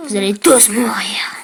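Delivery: whispered sinister threat; villain whisper. Acted.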